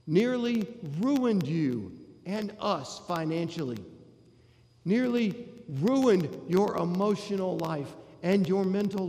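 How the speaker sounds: a resentful son unloading years of grievance, rising in force; older brother's resentment. Acted. Older brother's building rant at father.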